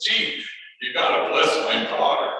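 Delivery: loud, urgent plea, imitating a worried dad; mild retold panic. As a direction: act out a touch of panic on the phone. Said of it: "kind of with panic in his voice".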